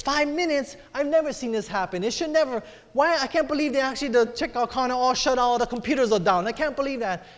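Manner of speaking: mildly indignant complaint; complaining. Retold or imitated. Lady behind in the checkout line griping, complaining. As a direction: lightly imitate a disbelieving complainer. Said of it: "was complaining to make it worse".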